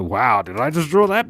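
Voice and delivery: flat, deadpan dismay; unimpressed. Retold or imitated. Artist disappointed by own drawing, flat deadpan dismay. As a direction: say it like you regret the drawing. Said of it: "And other times I go".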